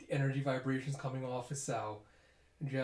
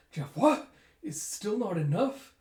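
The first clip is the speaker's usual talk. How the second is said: shouted, much higher, disbelieving cry; shocked disbelief; 7 semitones higher, 7 dB louder, slower than usual. Acted. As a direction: yell it as if the hit did nothing. Shocked tech sees attack fail.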